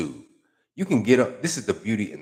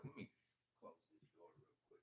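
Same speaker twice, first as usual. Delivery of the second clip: off mic; 4 semitones lower, 35 dB quieter, much faster than usual. Real, not acted. Stepping away to close door.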